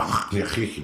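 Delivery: throaty imitation of German chatter; mock German gibberish. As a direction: make guttural noises like mock German. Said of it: "whatever the fuck language they talk".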